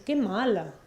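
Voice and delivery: imitated little Mexico City girl's accent; mock kindergartner accent. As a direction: lightly mimic a small girl's accent, stretching "mala". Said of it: "porque además tiene ese acento así".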